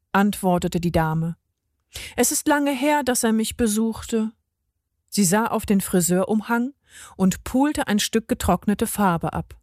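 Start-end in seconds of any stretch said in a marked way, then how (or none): 2.2-4.3 higher-pitched elderly customer, lightly played; a touch of longing, pitched up; old lady, wistful. Lady misses her grandson, mildly wistful higher voice.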